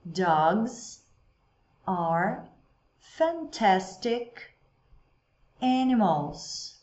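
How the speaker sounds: slow, each word set apart for repeating; slow drill for the class; slowly, word by word. Shown as a demonstration. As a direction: lay out "Dogs are fantastic animals" slowly word by word. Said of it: "Eu vou falar lentamente agora".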